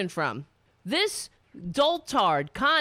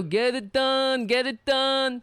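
mock command. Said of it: "That's what he said to Stormy Daniels".

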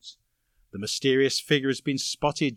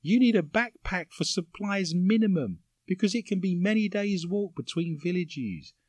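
lightly voiced woman, a touch higher; 4 semitones higher than usual. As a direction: read it in a mild woman's voice. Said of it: "Is that your woman voice?".

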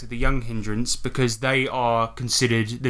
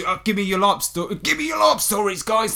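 much higher-pitched mocking impression; Owen; 6 semitones higher than usual. Host mimics co-host begging friends for larp stories, high mock plea. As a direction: put on a high, pestering voice pleading for stories. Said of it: "That's my Owen impression".

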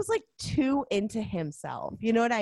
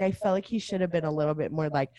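normal talking voice

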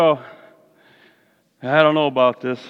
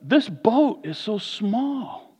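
complaining to God; 3 semitones higher than usual. Retold or imitated. Preacher acts himself complaining to the Lord, mock whine. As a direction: grumble that the boat is too small. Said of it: "and I'm like".

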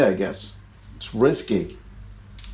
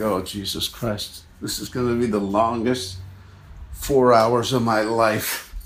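dismayed groan; 3 semitones lower, 5 dB quieter than usual. Retold or imitated. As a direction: sink at the sight of him. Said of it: "you're just like".

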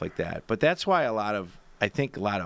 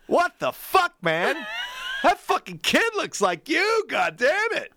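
hammed-up teasing shout; Tom Arnold ribbing Arnold; slower than usual. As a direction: needle him like a loudmouth buddy. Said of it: "And he'd be like".

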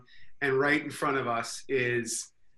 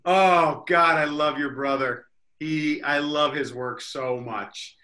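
loud start settling into slow gushing; retold star-struck outburst, drawn out; gushing recognition; 5 dB louder, slower than usual. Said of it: "and I'm like".

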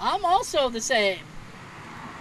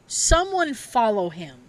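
slow ghostly voice from a spirit box; eerie spirit voice; slower than usual. Retold or imitated. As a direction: drag it out slowly like a ghost in the static. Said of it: "a voice comes through the, the spirit box".

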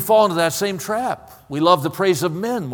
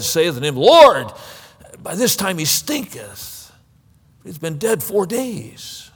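scripture reading. Acted. Preacher reads verse thirty-three onward to the congregation, measured and solemn. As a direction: read the passage gravely, lifting a little for the quoted speech. Reads the Bible passage aloud.

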